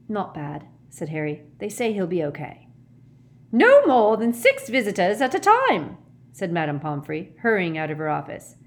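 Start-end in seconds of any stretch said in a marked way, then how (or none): 3.5-6.0 high, loud scolding order; strict matron's call. A narrator's reading. Matron ordering visitors out of the ward, high and loud. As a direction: call out sharply to break up a crowd.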